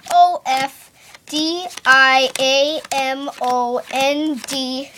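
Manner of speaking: slow letter by letter, each one counted out; spelling it out. Shown as a demonstration. Magician to audience, slowly spelling out each letter. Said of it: "I'm gonna spell ace of diamonds".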